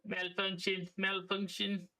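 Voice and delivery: lightly voiced robot alarm; hint of a malfunctioning robot; glitching robot. Mock robot alarm in game.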